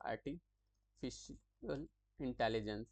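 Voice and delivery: slow, spelled-out "artificial intelligence" for students; slow repeat. Shown as a demonstration. Teacher repeating the term for students, slow and clear. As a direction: drag out "artificial intelligence" so the class can write it. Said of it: "फिर से मैं बता देता हूँ".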